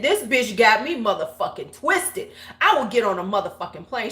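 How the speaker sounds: imitated angry rant, fast and punchy; going off. Upset friend ranting to her on the phone, going off. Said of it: "she's just going off".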